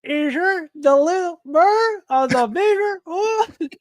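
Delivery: slow, high, hammed-up Boston accent; badly faked Boston accent, drawn right out. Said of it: "bring out my best Boston".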